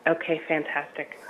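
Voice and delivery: hoarse, croaky voice; rough voice from a frog in the throat. Real, not acted. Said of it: "I apologize for my odd voice".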